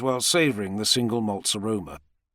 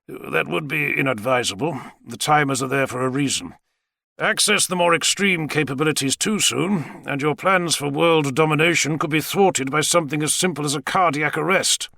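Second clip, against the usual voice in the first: higher-pitched, measured warning; cautioning Savage; 5 semitones higher than usual. Acted. Savage warning the president about the timers, measured caution. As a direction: lay out the danger in character.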